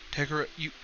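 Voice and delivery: put-on a child bursting out through tears; tearful girl. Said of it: "She started to cry".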